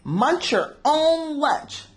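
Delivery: a different little fish, drawn out; Joey telling Clark off, voiced high and slow; Joey Mackerel voice. Friend Joey Mackerel speaks.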